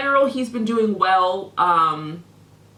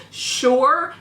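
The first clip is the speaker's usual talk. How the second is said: mocking echo; 4 semitones higher, 4 dB louder than usual. Mocks his one-word reply.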